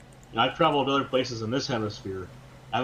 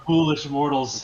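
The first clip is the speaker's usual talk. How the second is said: slow, louder villain gloat; dark lord voice; 2 semitones higher, 5 dB louder, slower than usual. Pretend. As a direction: sneer it like an evil overlord. Mocking Brits as a dark lord.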